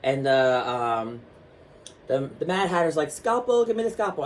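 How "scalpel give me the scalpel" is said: high, lisping Hatter voice; a hint of a frantic surgeon; imitating Mad Hatter. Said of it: "he talked gay with the really heavy lisp".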